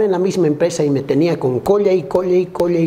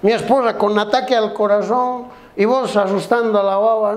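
mildly acted indignant husband, rising higher; reproachful complaint; 4 semitones higher than usual. Husband reproaches naked best friend, mock indignation. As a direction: plead and scold, pitch climbing toward the end.

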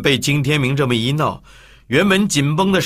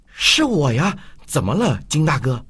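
nervous reply; 3 semitones higher than usual. Acted. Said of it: "很紧张地回答".

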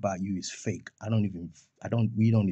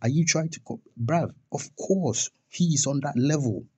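higher, heated and incredulous; fired-up challenge, raised pitch; indignant outburst; 5 semitones higher, 4 dB louder than usual. Real, not acted. Ranting at rival Dreamo for doubting Sark's standing, indignant.

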